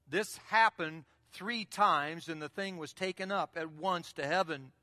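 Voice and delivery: slow and deliberate, each word weighed; slow, pointed scripture read; slow emphatic reading. Shown as a demonstration. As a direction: read it slowly so they notice. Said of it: "Now notice, it says in verse sixteen".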